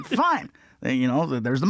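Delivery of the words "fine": high-pitched comic concession; retold giving in. Comic retells yielding to his ex, high mock concession. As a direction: give in with pitch shooting up. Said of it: "I'm like".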